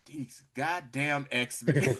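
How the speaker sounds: slow, drawn-out grumble of annoyance; exasperated villain. Retold or imitated. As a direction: drag each word out in weary contempt. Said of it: "Apocalypse is like".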